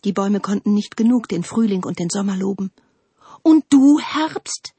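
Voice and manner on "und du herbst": high, challenging shout to Autumn; calling out. A narrator's reading. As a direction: turn on Autumn with a loud call. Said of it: "riefen sie". (herausfordernd rufend)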